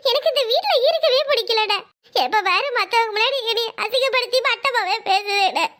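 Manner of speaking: slow, whining fake sobs to win her brother over; tearful complaint, laid on a bit thick; put-on crying. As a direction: crocodile tears, slow and wailing. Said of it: "சும்மா நடிக்காத தங்கமயிலே".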